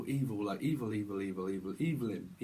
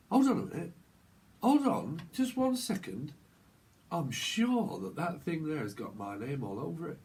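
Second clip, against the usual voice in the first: insistent northern English voice; northern accent. Acted. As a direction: put on a northern accent to halt them. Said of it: "I don't know why I'm speaking from".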